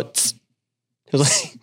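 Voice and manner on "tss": short soft hissing tss; tss sound. Shown as a demonstration. Friend showing the hiss that ends his laugh. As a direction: end the laugh with a quiet tss. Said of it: "at the end I would just go".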